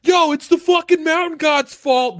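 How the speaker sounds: mock panic. Villagers freaking out about the mountain god, in a mock panicked shriek. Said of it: "everybody freaking out like".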